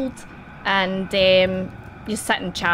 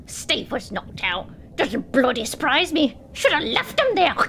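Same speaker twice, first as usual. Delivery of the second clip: scoffing wife; 5 semitones higher than usual. Acted. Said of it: "wife scoffs at Steve".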